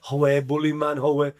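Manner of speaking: bad Geordie impression; Geordie accent. Gaza answering a teammate, badly faked Geordie accent. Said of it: "Shit, Geordie accent, by the way".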